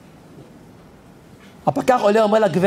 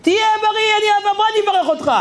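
put-on high, fast, blessing old lady; grateful old woman; 10 semitones higher, faster than usual. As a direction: gush your thanks like an old woman blessing him. (זקנה מברכת בקול גבוה ומהיר)

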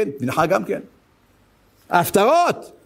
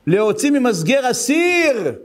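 high, drawn-out cry; prophet proclaiming; 4 semitones higher, slower than usual. Retold or imitated. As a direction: proclaim it slowly in a raised prophetic voice. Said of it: "הוא אומר, הנביא אומר". (קריאת נביא גבוהה ומתמשכת)

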